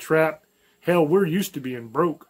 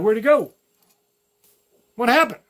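put-on confused girlfriend; 6 semitones higher, 4 dB louder than usual. Mocking abandoned girlfriend's confusion.

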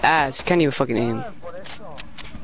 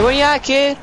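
taunting call-out; 4 semitones higher than usual. Shown as a demonstration. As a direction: call him out like a bully.

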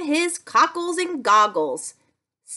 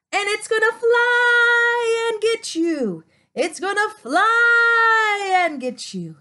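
higher singsong playful menace; singsong teasing threat; 5 semitones higher than usual. Pretend. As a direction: tease the kids with a playful threat. Playful spooky threat to kids.

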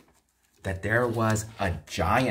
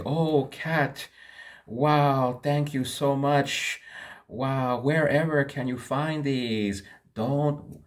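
amazed master; 5 semitones higher than usual. Acted. Master thanks the cat.

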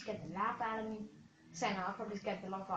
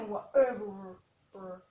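laughing; 4 dB louder, much slower than usual. Real, not acted. Laughs at own phrase.

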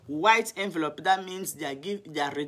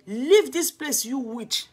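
insult; 5 semitones higher, 6 dB louder, slower than usual. Retold or imitated. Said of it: "he just told me".

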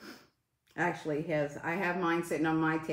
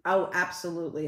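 normal talking voice

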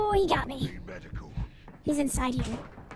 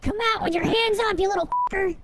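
shouted police demand; 6 semitones higher than usual. Pretend. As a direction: bark it like a cop. Louder cop demand.

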